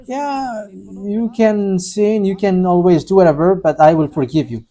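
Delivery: quietly voiced lax promise; permissive mock quote. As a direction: imitate an easygoing false reassurance. Quoting the deceiver's false promise.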